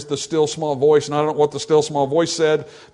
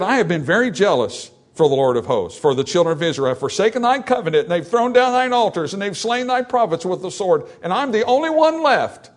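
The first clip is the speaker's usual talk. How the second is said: Elijah complaining; 7 semitones higher, 4 dB louder than usual. Acted. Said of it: "and he said".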